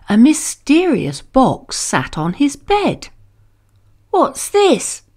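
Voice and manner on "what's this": put-on child James asking. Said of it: "asked James".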